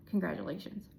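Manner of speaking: soft unvoiced whisper. Real, not acted. Reader to viewers, whispered congratulations. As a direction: whisper it like a private joke.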